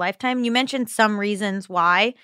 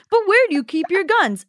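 mock gun-loving American; 9 semitones higher than usual. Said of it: "gone full U S A on you".

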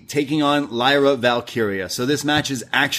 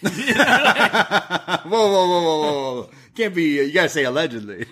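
laughing, higher whoa that settles down; laughing protest; 6 semitones higher, slower than usual. Real, not acted. Cohost says the girl isn't Italian, laughing protest. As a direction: stop him mid-joke, half laughing.

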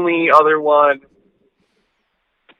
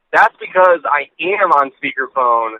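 on speakerphone. Real, not acted. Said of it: "why you sound like you're on speakerphone".

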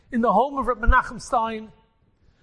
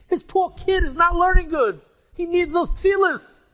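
higher, louder worried outburst; anxious fretting; 4 semitones higher, 3 dB louder than usual. Acted. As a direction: panic over letting the friend down. Rebbe frets about friend's son.

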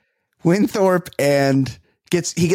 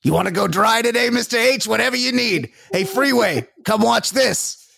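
higher, eager mock butler voice; hammed-up butler; 7 semitones higher than usual. Host mocks a butler pleasing his boss, higher fawning voice. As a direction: play the fawning butler, pitched up. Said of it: "He's like, he's like".

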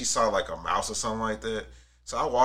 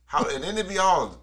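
disgusted; 7 semitones higher, slower than usual. Real, not acted. Disgusted by gooey tuna and eggs.

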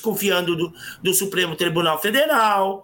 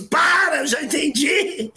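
high, alarmed cry of stop; a higher pitched startled stop, imitating the principal; 6 semitones higher than usual. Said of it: "A diretora se apavorou e disse". (a diretora assustada, voz alta e aguda)

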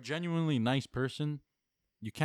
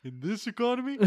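pitched way up; high-pitched; 11 semitones higher than usual. Acted. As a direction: squeak the question. Joke catchphrase.

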